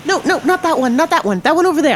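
high, small, eager little creature voice; a tiny helper chirping directions; twinkling breathy fairy whisper. Acted. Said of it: "you hear a little voice say".

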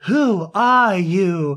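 drawn-out, lightly acted question; mock-dramatic slow question; retold film line. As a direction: ask it slowly, stretching each word. Acting out the film's old lady.

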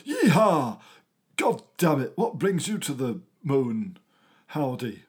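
a light American twang after a loud yeehaw; mock American cowboy. Storyteller greets the American space bee, mock American cowboy. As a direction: play at a hearty American cowboy. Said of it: "American space bee, Buzz Aspirin".

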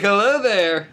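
imitating a suave hello while laughing; giggly mock greeting; laughing through it. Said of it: "Just like".

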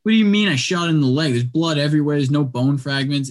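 mildly acted indignation; retold indignant protest. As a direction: push back as if wrongly accused. Retold argument over the leg shot.

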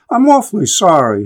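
a clear apology that lifts up at the end, as if waiting for a reply; bright, rising apology. A narrator's reading. Boy bumping into a stranger apologizes with a bright rising voice. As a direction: say sorry brightly and leave it hanging with a rising tune. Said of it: "in a bright, clear voice with a rising inflection".

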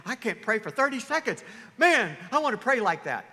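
hammed-up admiration; exaggerated wowed outburst; mock awe. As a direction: play an impressed listener, bursting with wonder. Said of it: "you hear someone's prayer and you think".

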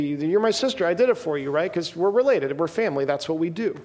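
put-on light Italian family-man accent. Sibling says we're family, in a light Italian accent. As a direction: play it with a hint of Italian accent. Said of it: "an Italian accent when I was doing that".

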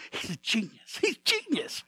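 awed onlookers, laughing and shouting out; amazed crowd. Retold or imitated. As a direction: gush over the new genius. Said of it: "everybody's going".

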